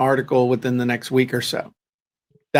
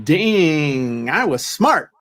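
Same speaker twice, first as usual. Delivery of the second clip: self-impressed; 2 semitones higher, slower than usual. Retold or imitated. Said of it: "and going".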